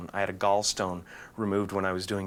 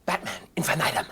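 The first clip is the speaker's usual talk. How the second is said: grand announcer voice; 8 semitones higher, faster than usual. Acted. Grand mock title.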